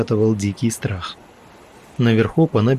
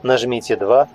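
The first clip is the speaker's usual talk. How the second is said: higher automated menu voice; phone menu voice; 3 semitones higher than usual. Acted. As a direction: announce options like a recording. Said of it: "другой голос, более молодой и тёплый".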